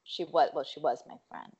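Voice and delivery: quiet, dropped-voice mutter; under her breath. Retold or imitated. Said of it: "And then under her breath".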